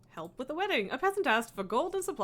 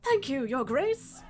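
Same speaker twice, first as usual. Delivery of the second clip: peasant voice; slower than usual. Acted. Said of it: "You love my peasant voice?".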